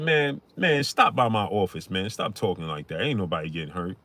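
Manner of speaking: a hint of a rap mogul calming things down; imitating a rapper. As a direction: play it down like a smooth mogul. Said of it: "He called the radio show. Said".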